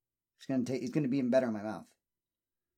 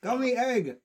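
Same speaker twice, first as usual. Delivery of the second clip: excited; 10 semitones higher, slower than usual. Real, not acted. Announcing the candy.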